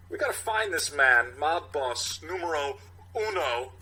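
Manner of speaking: halting Walken cadence, lightly done; Walken impression. Captain laying out the case, in a light Walken voice. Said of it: "Captain Ronnie".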